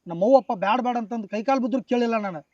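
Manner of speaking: loud, heated complaint; angry outburst. Acted. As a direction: hurl the words at him in anger. Cheated man confronts director.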